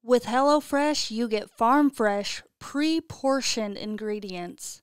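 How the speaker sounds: slow, emphatic sponsor pitch; ad read. Real, not acted. Host pitching meal kits to listeners, slow emphatic read. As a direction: sell it with stretched key words.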